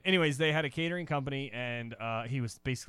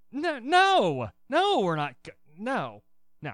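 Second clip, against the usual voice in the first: higher, louder flustered no's; flustered refusals; 9 semitones higher, 7 dB louder, slower than usual. Retold or imitated. Secret Service guy refusing Hillary, flustered high no's. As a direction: panicky repeated refusal. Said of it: "He's like".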